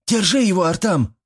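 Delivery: high shouting call. A narrator's reading. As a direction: yell for him to hold the man. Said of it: "кричала она". (Мила кричит Артаму: громкий высокий крик)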